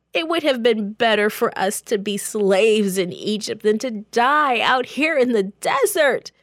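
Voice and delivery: high, loud frightened accusation; scared people turning on their leader; panicked complaint. Acted. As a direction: whine and blame in terror. Panicked crowd blames Moses.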